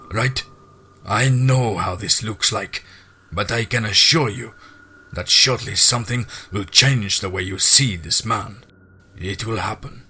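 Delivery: a measured, ceremonious address to the brothers; lodge master. Acted. Voices the master answering.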